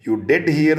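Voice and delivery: "did hear" slow and deliberate; emphatic stress. Shown as a demonstration. Teacher reading Harry's line to them, emphatic stress. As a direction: lean on "did" before "hear", drawn out. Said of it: "ये stress करने के लिए होता है".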